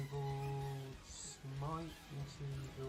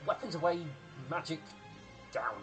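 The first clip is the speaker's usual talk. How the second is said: commanding order; 4 semitones higher, 5 dB louder than usual. Acted. GM voices character ordering stop.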